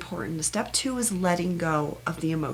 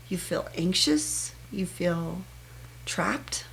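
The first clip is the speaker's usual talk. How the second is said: soft, tender words to herself, trailing into a whisper; gentle self-comfort; 3 dB quieter than usual. Shown as a demonstration. The speaker consoling herself about a hard day, softly tender. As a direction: comfort yourself like a close friend. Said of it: "this is what I usually say".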